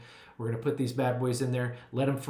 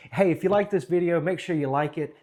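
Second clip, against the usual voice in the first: excited outro; 4 semitones higher, 5 dB louder than usual. Acted. Outro call to subscribe.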